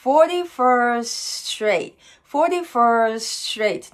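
forty-first straight drawn out slowly with one shared "st"; merged st. Shown as a demonstration. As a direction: melt the end of first into straight. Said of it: "スチって音が合体して". (forty-firstとstraightのstを一つにしてゆっくり)

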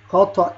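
"خطأ" ending in -an; "خطأ" pronounced khata'an with a held final n; tanween fath. Shown as a demonstration. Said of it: "الألف المهموزة في نهاية الكلمة".

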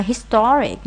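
"historic" stressed on TOR; second-syllable stress. Shown as a demonstration. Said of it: "nhấn âm hai".

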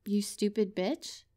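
tentative, questioning insult; half-hearted tsundere. Pretend. Partner attempting tsundere for their babe, half-hearted. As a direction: try a tsundere insult, unsure of it. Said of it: "I might have to work on my tsundere".

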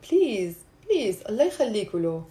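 soft, low demonstrated plea; pleading. Shown as a demonstration. Teacher showing it just means please, soft pleading. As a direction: plead under your breath for a favour. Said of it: "we're just saying, like".

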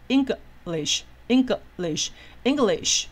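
English 拆成音节慢慢念; 把 English 从中间切开，一节一节慢读; 分音节示范. Shown as a demonstration. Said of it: "所以我们就从中间这边切". (慢速分音节念 English)

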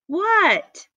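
high-pitched little frog's "what?"; high, falling storybook yelp; startled answer. A narrator's reading. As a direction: pipe up in reply to being called. Froggy answers his mother's call.

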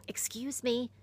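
whispered excuse me; breathy startled apology. A narrator's reading. Boy apologizing after falling in the mud, whispered. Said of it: "he said".

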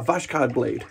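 a light mock Russian accent on "Vashkod". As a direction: say "Vashkod blade" with a hint of a playful Russian accent. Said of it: "That was my wonderful Russian accent".

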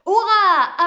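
cheering hurrah. A narrator's reading. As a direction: throw it out like a crowd cheering. Class cheers correct answer.

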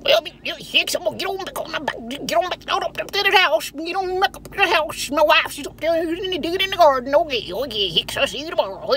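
put-on high, rambling old country man. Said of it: "J D".

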